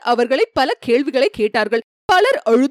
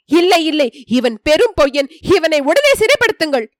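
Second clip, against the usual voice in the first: a touch raised, insistent protest; mildly raised accusing call; urging the guards on, moderately raised; crying out aloud; 4 semitones higher than usual. Acted. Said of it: "வாய்விட்டு கூவினான்".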